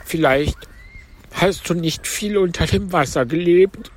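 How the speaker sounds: high, plaintive turtle voice; Mock Turtle. A narrator's reading. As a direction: pitch it up for the tearful turtle. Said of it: "erzählte sie weiter". (hohe Stimme der falschen Schildkröte)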